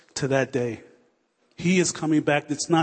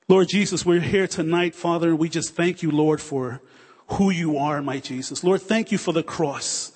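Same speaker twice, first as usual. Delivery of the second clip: fervent prayer; 2 semitones higher than usual. Acted. Pastor leading the congregation in closing prayer, fervent. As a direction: pour it out to God in fervent prayer.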